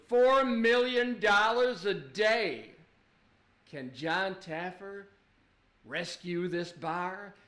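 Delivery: lightly hyped TV narrator, slowing to a suspense question; show narrator. Acted. Narrator asking if the bar can be saved, mock suspense. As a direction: stretch out a mock cliffhanger voiceover. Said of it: "the narrator is like".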